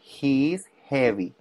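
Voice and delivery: "heavy" said slowly with a clear breathy h; pronunciation of heavy. Shown as a demonstration. Teacher modelling "heavy" for a student, slow and clear. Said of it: "la pronunciación de heavy".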